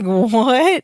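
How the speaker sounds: mildly baffled rising question; confused. Retold or imitated. Podcaster as Larry hearing the news, mildly confused. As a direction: react with mock bewilderment. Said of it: "very confused".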